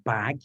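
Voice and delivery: "bag" with a released final G; aspirated English ending. Shown as a demonstration. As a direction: let a puff of breath follow "bag". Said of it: "you know how we say".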